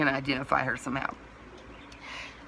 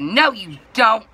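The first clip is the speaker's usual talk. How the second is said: loud, higher, drawn-out denial; retold contradiction; 6 semitones higher, 9 dB louder, slower than usual. Dispatch woman contradicting the customer, loud mock retort. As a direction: imitate a caller flatly refusing to believe.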